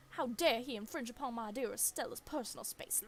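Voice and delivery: a tiny dog raging to protect her owner; hammed-up indignant barking in words; furious little dog. Voices dog Gretchen furious at deer.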